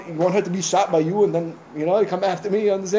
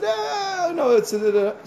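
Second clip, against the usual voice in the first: flustered stammer; 11 semitones higher, much slower than usual. Retold or imitated. Shul president caught off guard, stammering in panic. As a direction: fumble for words, caught out.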